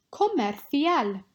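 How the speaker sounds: Comercial said slowly, each syllable clear, kɔmɛrθial with a lisped c; slow model pronunciation. Shown as a demonstration. Teacher models Comercial for the class, slow and clear. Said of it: "pronunciation practice".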